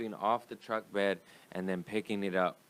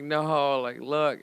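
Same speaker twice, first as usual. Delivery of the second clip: put-on insistent kid; 7 semitones higher, 7 dB louder, much slower than usual. Insisting to mom.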